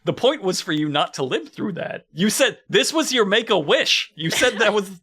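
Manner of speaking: mock amazed crew. Film crew marvels the stuntman survived, mock amazed. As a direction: gush in fake disbelief, laughing by the end. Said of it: "And they're all like".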